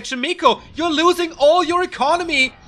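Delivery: high, loud alarmed call; urgent shouting. Real, not acted. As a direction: yell a warning at the player.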